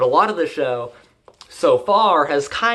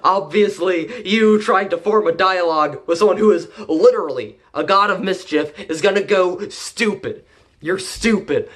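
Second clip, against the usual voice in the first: mock angry rant; 5 semitones higher than usual. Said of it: "is like".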